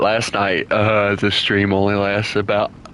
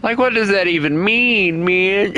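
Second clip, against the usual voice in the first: much higher, laughing disbelief; exasperated disbelief; 9 semitones higher than usual. Real, not acted. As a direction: throw up your hands laughing. Mocking Twitter renamed to X.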